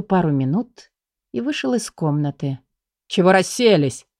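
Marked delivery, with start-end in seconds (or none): 3.1-4.1 rough shout. A narrator's reading. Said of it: "грубый окрик".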